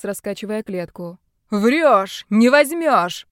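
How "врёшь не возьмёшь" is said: slow loud rallying yell. Acted. Hawaiian-shirt man yells at captives to rock the cage, loud yell. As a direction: rouse the others to push. Shouting while rocking cage.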